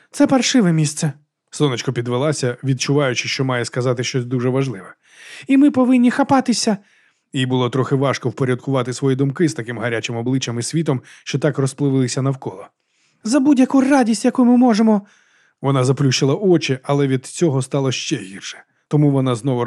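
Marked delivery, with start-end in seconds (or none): 0.1-1.1 higher, emphatic voice; pitched-up declaration; tipsy speech. A narrator's reading. Drunk heroine begins a speech. 5.5-6.8 high, loud declaration; high-pitched, loud oration; tipsy speech. A narrator's reading. Drunk heroine makes a speech. 13.2-15.0 high, loud declaration; high-pitched, loud oration; tipsy speech. A narrator's reading. Drunk heroine makes a speech.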